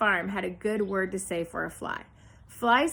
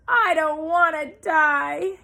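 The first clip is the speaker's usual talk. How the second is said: slow, loud, high moan; 7 semitones higher, 7 dB louder, slower than usual. A narrator's reading. Pig moans as he bursts into tears, high, loud and slow. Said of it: "he moaned".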